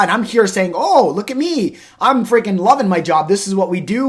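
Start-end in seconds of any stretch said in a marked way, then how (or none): 0.8-3.3 super hype. Retold or imitated. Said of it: "super hype about what my job is". 3.3-4.1 upbeat, eager delivery of This is what we do; hyped-up pitch. Retold or imitated. Salesman gushing about his job to a recruit, excited. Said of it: "super hype about what my job is".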